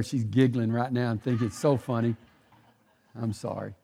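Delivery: low, subdued apology through real tears held back; emotional. Real, not acted. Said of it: "I got emotional".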